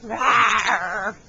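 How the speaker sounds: loud playful rawr; bear roar. Shown as a demonstration. Showing the toddler how a bear goes, loud rawr. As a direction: growl like a bear for the child. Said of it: "Can you say rawr?".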